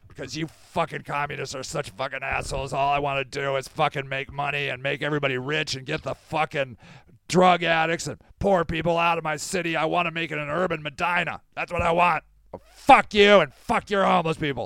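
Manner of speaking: mock furious rant full of swearing. Voicing a friend's cutout that is asked why he is so angry: imitating Dan angry. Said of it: "Dan, why are you so angry?".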